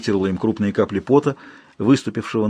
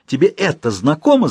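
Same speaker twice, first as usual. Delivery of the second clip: крик; 4 semitones higher than usual. Acted. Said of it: "закричала она".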